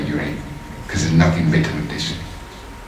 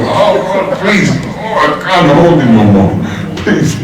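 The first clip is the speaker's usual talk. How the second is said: mock pleading, higher and louder; hammed-up plea of a man on sore knees; crying out to God; 8 semitones higher, 4 dB louder than usual. New Muslim with numb legs begging God, mock pleading. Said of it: "He's crying out to God".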